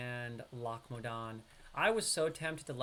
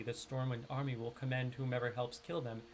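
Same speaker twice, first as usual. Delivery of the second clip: careful neutral reading, New York accent smoothed out; professional accent; 2 semitones lower, 3 dB quieter than usual. Shown as a demonstration. Streamer reading quest text to viewers, in a careful professional accent. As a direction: streamer switches back to his polished quest-reading voice for chat. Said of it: "But I'm trying to speak professionally".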